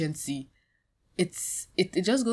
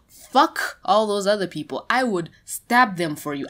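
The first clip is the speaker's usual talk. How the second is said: louder, heated swearing; angry outburst; 2 semitones higher, 7 dB louder than usual. Real, not acted. Vlogger rants at the artist's harassers, loud and angry. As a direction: lash out at the harassers.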